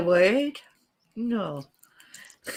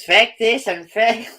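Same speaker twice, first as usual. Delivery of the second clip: slow, punched swear words; ranting Irish housekeeper; 3 dB louder, slower than usual. Retold or imitated. Quoting housekeeper on dirty book, indignant rant. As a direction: lightly imitate a scandalised rant. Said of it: "his housekeeper telling her".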